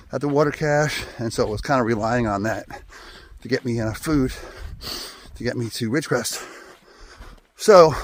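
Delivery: breathless while climbing uphill; out of breath. Real, not acted. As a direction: talk between breaths on a climb. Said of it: "I'm out of breath, I'm climbing".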